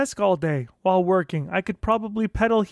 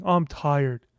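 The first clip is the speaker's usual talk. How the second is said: mock whining; 6 semitones lower than usual. Shown as a demonstration. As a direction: whine like a lazy self making excuses. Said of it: "this is what it sounds like".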